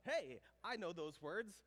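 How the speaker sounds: loud, slow, delighted call-out; acted-out excited discovery, drawn out loudly; excited recognition. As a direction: call out as if spotting something familiar. Acting out recognizing English abroad.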